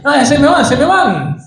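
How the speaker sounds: half-joking wail of despair; mock wailing. Preacher imagines a panicked healer, mock wail. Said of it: "Tal vez no en este tono".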